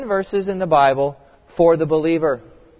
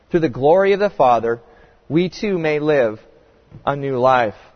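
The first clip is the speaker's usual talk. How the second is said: measured, lifted Bible reading; solemn public reading of scripture. Acted. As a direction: read the passage with weight.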